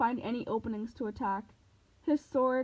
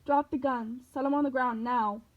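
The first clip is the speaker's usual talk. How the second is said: megaphone cop; 4 dB louder than usual. Acted. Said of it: "police voice on the megaphone".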